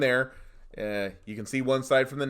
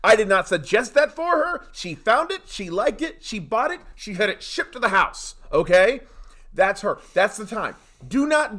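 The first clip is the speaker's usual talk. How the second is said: raised, forceful insistence; hammering the point home; emphatic; 6 semitones higher, 5 dB louder than usual. Real, not acted. Emphatic rant about appliances.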